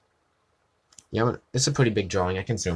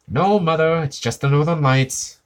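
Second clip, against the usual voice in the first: Skinner calling back; 5 semitones higher, 4 dB louder than usual. Retold or imitated. Skinner answering his mother.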